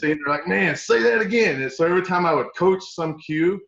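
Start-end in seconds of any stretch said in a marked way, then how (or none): 0.5-1.6 much higher, eager request; delighted players. Retold or imitated. Players beg the coach to repeat his accent, delighted and high.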